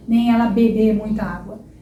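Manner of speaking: ela bebe muita água with closed e in bebe, wrong. Shown as a demonstration. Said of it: "Você não fala".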